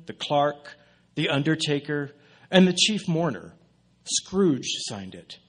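measured literary narration; storyteller's delivery with deliberate pauses; story reading. Acted. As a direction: read it out like the opening of a classic tale. Reads Dickens' opening aloud.

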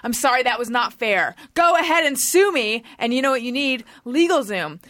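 upbeat sponsor read, brisk and bright. Acted. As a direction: sell it like a podcast ad spot. LegalZoom ad read.

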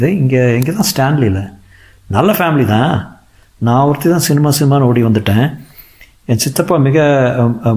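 lightly voiced woman sharing family woes; a hint of a rueful young actress; actress confiding troubles. Narrator voices Archana telling family story.

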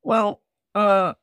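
put-on high little old elf voice; christmas elf. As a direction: play a hesitant little elf. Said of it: "answered the little old elf".

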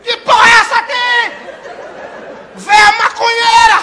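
high, loud barking tough-cop yell; Capitão Nascimento. Retold or imitated. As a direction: storm in like a furious squad captain. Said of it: "Baixou o Capitão Nascimento na hora".

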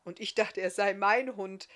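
loud, good-humoured hesitation; happy, teasing giant; cheerful grin. A narrator's reading. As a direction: say it through a grin. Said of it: "grinste der Bartriese fröhlich".

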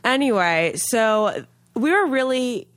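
stuffy nose from a cold; talking through a clogged nose; nasal voice. Real, not acted. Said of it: "so please pardon my nasal sounding voice".

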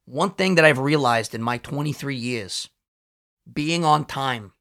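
slow, deliberate preaching tone; mock lecture. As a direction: lecture him with exaggerated gravity.

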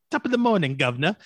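hammed-up British accent, jokey; mock British accent. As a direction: toss off a cartoonish British accent greeting. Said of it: "if I put in a British accent".

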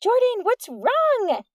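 high, loud, slow call through the rain; a girl calling out loud over the rain; shouting over rain. A narrator's reading. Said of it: "Amy shouted over the patter of rain".

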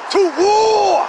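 high, shouted battle cry; rally the troops with a shout; mock warrior's call to arms; war cry.

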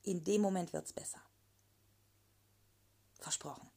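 soft whispered promise. Real, not acted. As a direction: whisper it gently. Intimate promise to listeners.

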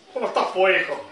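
put-on low-pitched Chilean dad-boss greeting his child; gerente chileno cariñoso. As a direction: drop low for the manager greeting his son. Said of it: "Y el gerente le dice". (gerente chileno saludando a su hijo, voz grave)

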